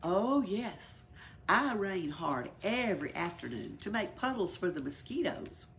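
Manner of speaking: hushed, airy rain spirit; whispery rain voice. Acted. The rain explaining to the elephant, whispered and airy.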